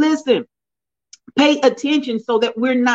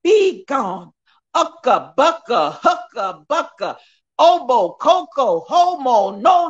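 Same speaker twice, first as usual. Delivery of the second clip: mock tongues babble like a televangelist; a hint of a televangelist speaking in tongues; Paula White imitation; 2 semitones higher, slower than usual. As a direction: babble a fake prayer in tongues. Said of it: "that's my Paula White imitation".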